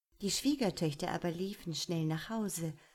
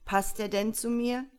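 louder, higher lament of a miserable prince; tearful Iwan; 4 semitones higher, 7 dB louder than usual. Acted. Iwan pleading to his father, loud tearful lament. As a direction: complain it out, close to tears. Iwan weeps over frog bride.

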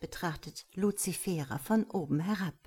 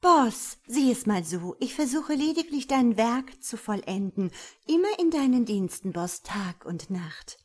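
high, loud start slowing to the end; raised, squirming self-justification; wheedling excuse; 4 semitones higher, 4 dB louder than usual. Acted. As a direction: plead your case to the boss. Luzifera squirms, excusing herself to God.

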